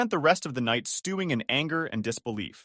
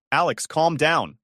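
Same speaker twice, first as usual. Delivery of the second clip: firm tone; 4 semitones higher, 5 dB louder, slower than usual. Acted. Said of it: "his tone firm".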